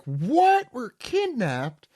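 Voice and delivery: high, puffed-up little warrior; high boastful kid. Acted. Recapping manga to friends, cocky kid bragging high.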